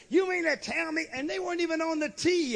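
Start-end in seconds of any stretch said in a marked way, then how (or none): 0.1-1.1 indignant woman mimic. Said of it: "us and say".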